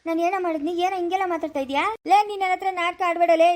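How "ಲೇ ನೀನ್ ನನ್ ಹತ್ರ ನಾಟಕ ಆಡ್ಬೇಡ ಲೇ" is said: raised, higher-pitched warning; cross, indignant outburst; angry scolding. Acted. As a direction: scold with the voice pushed up. Angry parent scolding in quarrel.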